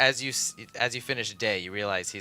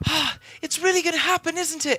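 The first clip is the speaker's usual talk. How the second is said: put-on high-pitched, excited child voice; 6 dB louder than usual. Voicing a kid who greets an approaching player: eager kid character. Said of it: "just waiting for you eagerly".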